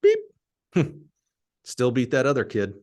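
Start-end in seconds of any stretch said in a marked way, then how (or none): 0.0-0.2 imitated timer beep. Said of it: "the timer goes".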